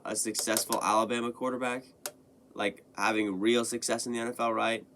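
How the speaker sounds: usual speaking voice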